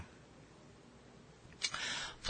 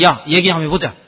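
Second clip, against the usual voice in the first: louder, blunt father in Gyeongsang dialect; 4 semitones higher, 8 dB louder, faster than usual. Retold or imitated. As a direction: gruffly open the chat. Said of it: "아버지는".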